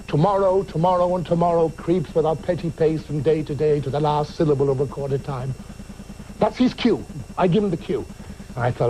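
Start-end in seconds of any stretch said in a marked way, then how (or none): 0.1-5.5 grand soliloquy. Retold or imitated. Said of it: "the greatest soliloquy from Macbeth".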